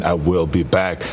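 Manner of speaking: deliberate, evenly weighted "I will be back"; lightly robotic line reading; like a machine. Retold or imitated. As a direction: say it as a machine would, word by word. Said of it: "Sounds more like a machine".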